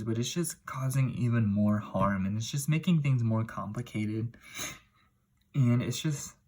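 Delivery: choked up. Real, not acted. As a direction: voice tight with held-back tears. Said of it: "sorry, I'm, like, choked up".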